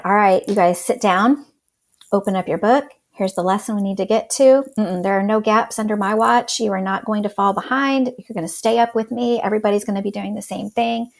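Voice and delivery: lightly acted strict teacher, brisk orders; authoritarian teacher. Teacher telling the class there are no gaps under her watch, mildly authoritarian. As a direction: lay down the rules with a touch of authority. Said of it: "I was no longer that authoritarian".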